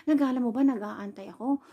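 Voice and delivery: mock telling-off with loud opening jabs; retold angry scolding. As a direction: imitate an annoyed husband's scolding. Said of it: "galit as in talaga".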